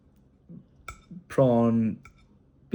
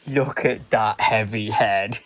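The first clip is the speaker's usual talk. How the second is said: slow fond coo; 4 semitones lower, 5 dB louder, slower than usual. Real, not acted. Cooing at drowsy toddler.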